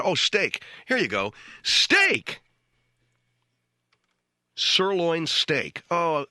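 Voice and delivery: sarcastic dad. Retold or imitated. Dad sarcastically serving steak to kids.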